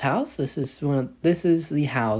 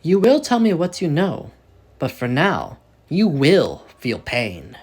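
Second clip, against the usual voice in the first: cold command; 3 semitones higher, 5 dB louder than usual. Acted. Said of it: "and simply says".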